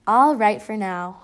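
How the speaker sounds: grudging, slow and loud; humphing. Acted. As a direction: give in with a reluctant humph. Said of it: "humphed Missus Beekman".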